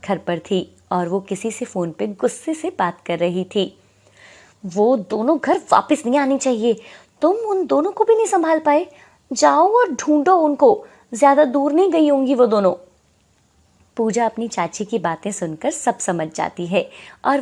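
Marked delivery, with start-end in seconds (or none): 4.7-12.7 higher, louder angry orders; loud, angry command; angry aunt on the phone. Acted. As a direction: scold the hired man furiously.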